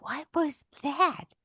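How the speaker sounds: slow, high-pitched disbelief; incredulous demand. Retold or imitated. Wife confronting husband in the car, incredulous. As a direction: stretch each word, appalled.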